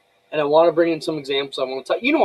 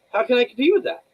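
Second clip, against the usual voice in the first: incredulous; 6 semitones higher, 3 dB louder than usual. Retold or imitated. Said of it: "and I'm like".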